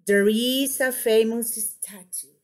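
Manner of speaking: falling tune closing on "statue"; statement intonation. Shown as a demonstration. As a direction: bring "statue" down to finish the statement. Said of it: "look at the way I do this".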